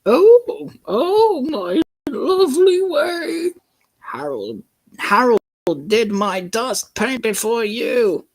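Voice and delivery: put-on very high, loud shrieking old lady; shrill lady exclamation. Missus Kindly calling out to Harold, high and loud.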